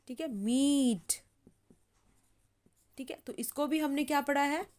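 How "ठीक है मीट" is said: slow, the ee of मीट long; teacher repeating मीट slowly; slow demo. Shown as a demonstration. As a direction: draw out मीट. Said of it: "long sound आया है".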